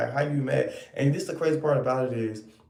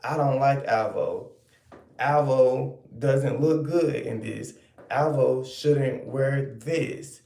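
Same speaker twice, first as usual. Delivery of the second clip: slow mock opinion; slower than usual. Shown as a demonstration. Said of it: "An opinion is saying".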